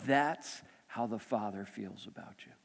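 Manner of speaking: low, soft, slow murmur; imitated divine whisper. Holy Spirit speaking to a father, low hushed whisper. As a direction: speak it gently down low, slowly. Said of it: "Holy Spirit whisper to me".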